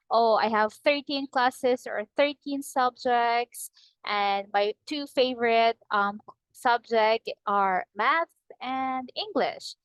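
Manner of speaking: slow model answer, each phrase ending in a clear fall. Shown as a demonstration. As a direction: read it slowly and let the last words drop. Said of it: "like, for example".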